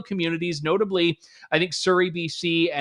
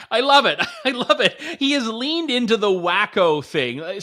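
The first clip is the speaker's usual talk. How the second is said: gleeful and laughing; delighted; 4 semitones higher than usual. Real, not acted. Delighted by clip.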